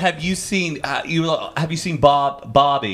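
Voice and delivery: Bobby said with a flat American broad ah; lightly imitating a Brit's American accent; mock American accent. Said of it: "Yeah, Bobby".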